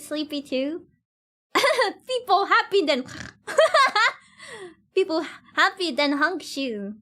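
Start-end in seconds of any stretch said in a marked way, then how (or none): 1.5-7.0 laughing. Real, not acted. Giggling while talking.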